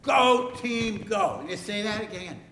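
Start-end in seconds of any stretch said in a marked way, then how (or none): 0.0-1.4 higher-pitched cheer for repeating; demonstrated team cheer. Shown as a demonstration. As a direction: lead the kids in a mild cheer. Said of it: "then you yell out like".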